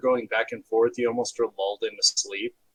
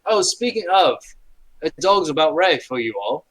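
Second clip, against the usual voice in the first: taunting guard; 3 semitones higher, 4 dB louder than usual. Acted.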